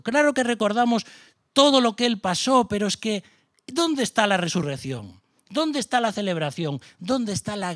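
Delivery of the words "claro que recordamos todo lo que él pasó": louder insistence. Acted. Preacher insisting to the church, louder and higher. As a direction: build up, louder and higher on claro. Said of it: "repeated phrase building".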